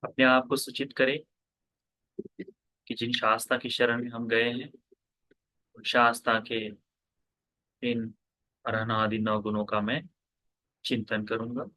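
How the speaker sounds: measured meditation guidance with long pauses; guided meditation. Real, not acted. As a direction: guide listeners into stillness, pausing after each instruction. (ध्यान कराते हुए, ठहर-ठहर कर निर्देश)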